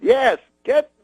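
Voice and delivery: high, very slow, halting instruction; Bill Cosby impression. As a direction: give a drawn-out order in high, broken phrases. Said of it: "He goes".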